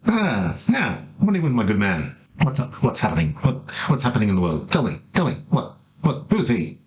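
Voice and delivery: a lightly voiced nosy priest pestering for news; a hint of a busybody cleric; eager cleric. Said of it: "there's a cleric there".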